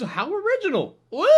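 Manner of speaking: ordinary talk, nothing marked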